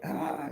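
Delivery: brief mock scream; a short 'ah' imitating her scream; imitated scream. Woman screaming as rose petals come off, imitated scream. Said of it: "screaming with two flowers in each hand".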